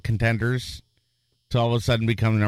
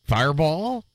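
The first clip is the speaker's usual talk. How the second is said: raised pitch, rising at the end; retold game call; 5 semitones higher than usual. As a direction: lightly imitate a drawn-out arena call. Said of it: "they would go".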